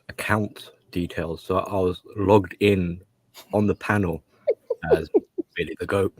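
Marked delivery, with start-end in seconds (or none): 4.9-6.1 laughing. Real, not acted. Funny story about login name.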